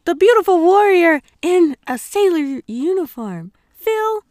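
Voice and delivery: loud, high declamation; big theatrical warrior announcement; heroic self-introduction. Acted. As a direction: proclaim it like a magical-girl heroine. Performs heroine's introduction after transforming.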